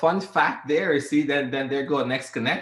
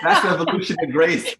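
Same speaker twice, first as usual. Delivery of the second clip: laughing; 4 semitones higher, 8 dB louder than usual. Real, not acted. Host laughing at the joke.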